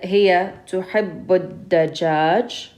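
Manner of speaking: "الدجاج" with lam silent and doubled dal, ad-dajaj; sun letter assimilation. Shown as a demonstration. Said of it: "So we would have said".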